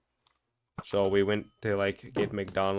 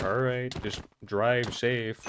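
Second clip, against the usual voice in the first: nonchalant; 2 semitones higher, slower than usual. Retold or imitated. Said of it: "like, nonchalant way ever".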